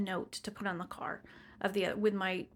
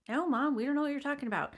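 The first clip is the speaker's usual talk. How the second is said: higher-pitched mimicked kids; kids' chorus; 5 semitones higher, 4 dB louder, faster than usual. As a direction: toss it back like rowdy children. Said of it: "the kids all said".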